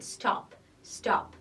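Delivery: "stop" as a single short beat, voice unchanged; one unbroken syllable. Shown as a demonstration. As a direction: say "stop" in one beat, without changing the sound. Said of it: "I didn't change the voice".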